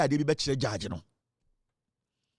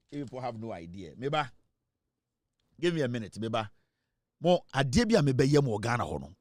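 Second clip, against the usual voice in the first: quiet threat; 7 semitones lower, 7 dB quieter than usual. Real, not acted. Warning the demonstrators what is coming, in a quiet threatening voice. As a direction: drop way down, low and menacing.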